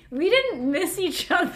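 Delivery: didn't said high and loud; stress on didn't. Retold or imitated. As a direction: hit didn't hard, laughing. Indignant correction.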